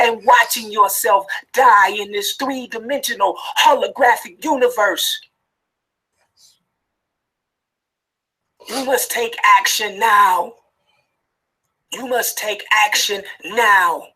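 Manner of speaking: pressing, anguished, distressed urgent tone. Speaking directly to a listener addressed as Derek Dunlap, distressed and urgent. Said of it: "You can hear the distress and the urgency in my voice".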